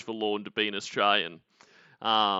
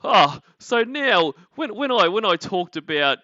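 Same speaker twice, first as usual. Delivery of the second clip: hammed-up imitation of a pretentious creator; mock self-important streamer; 6 semitones higher, 6 dB louder than usual. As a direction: drag it out like a self-serious director's commentary. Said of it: "when he's sitting there going".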